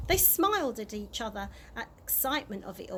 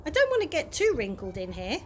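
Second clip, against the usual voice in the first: cheerful tramp; 4 semitones higher than usual. Acted. Mister Stink cheerful in bath.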